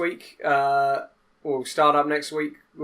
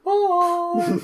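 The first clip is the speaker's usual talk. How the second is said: excited goodbye; 6 dB louder than usual. Real, not acted. Cheerful sign-off calling out.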